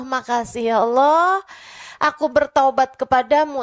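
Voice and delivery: pleading thanks through mild tears; tearful repentance. Acted. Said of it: "terus dia nangis". (sambil menangis pelan, bertaubat)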